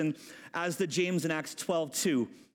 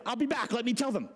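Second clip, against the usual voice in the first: lightly acted, higher-pitched eagerness; excited servant girl; 4 semitones higher, faster than usual. Rhoda leaving Peter outside, excited. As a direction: toss it off eagerly, a bit high. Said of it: "She's so excited".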